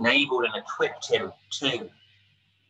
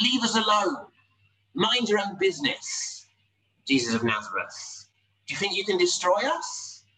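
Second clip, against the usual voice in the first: lightly voiced possessed man, pitched higher and defiant; defiant demon voice; 5 semitones higher than usual. Possessed man defies Jesus, mildly raised defiant voice. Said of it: "He says".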